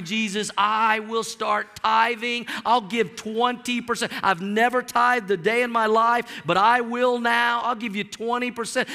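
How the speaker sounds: hammed-up desperate promises to heaven; mock bargaining prayer. Lottery ticket buyer bargaining with Jesus, mock earnest pleading.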